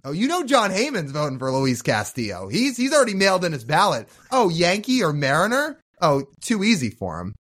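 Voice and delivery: mock-amazed sarcasm with exaggerated swoops; deadpan-serious words said with obvious irony; sarcastic. Real, not acted. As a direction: lay the sarcasm on, pitch lifting mid-phrase. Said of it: "hear the sarcasm in my voice".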